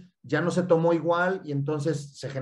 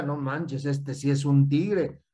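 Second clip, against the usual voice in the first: amused and slow, half laughing; laughing admiration; 3 semitones lower, slower than usual. Retold or imitated. Mimicking a stranger, laughing and impressed. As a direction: chuckle through the compliment. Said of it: "alguien que diga".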